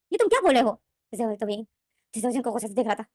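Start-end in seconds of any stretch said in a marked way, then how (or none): 0.1-0.8 higher and louder, stunned; shocked cry of disbelief. A narrator's reading. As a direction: recoil at what he just heard. Brother shocked by death wish.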